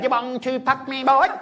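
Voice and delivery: high, breathy-sounding mock come-on; hammed-up seductive woman, pitched high; mock flirty woman. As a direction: tease him like a brazen flirt. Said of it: "She'd be like".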